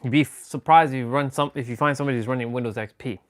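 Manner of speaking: talking while crunching; crunching chips. Real, not acted. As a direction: mouth full of chips. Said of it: "Don't mind the crunching".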